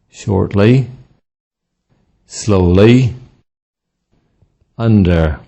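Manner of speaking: word list, each adverb punched on its first syllable; first-syllable stress. Shown as a demonstration. Teacher drilling adverbs and prepositions with first-syllable stress. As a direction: stress the start: ALways, LAter, OFten, Over, SLOWly, UNder. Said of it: "with stress on the first syllable".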